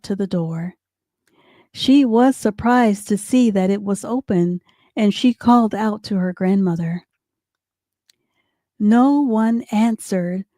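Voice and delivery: clear, animated storybook reading; lively children's story narrator; story narration. A narrator's reading. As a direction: read it aloud to little kids.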